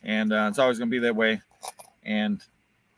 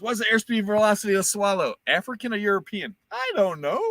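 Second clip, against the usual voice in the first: Monty Python bridgekeeper quote; 9 semitones higher than usual. Retold or imitated. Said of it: "he goes".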